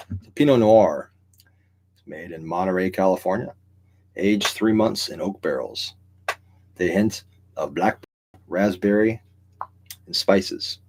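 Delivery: slow, measured recital of tasting notes; memorized wine pitch. Pretend. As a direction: recite it like a liquor rep, pausing between phrases. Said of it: "So I memorized this shit".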